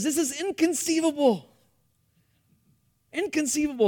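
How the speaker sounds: understated imitation of Vizzini's accent; mock Vizzini accent. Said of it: "trying to do the accent".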